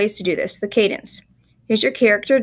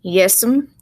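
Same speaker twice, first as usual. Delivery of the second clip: Southern country dialect; 4 dB louder than usual. Shown as a demonstration. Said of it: "it's something he's saying over and over".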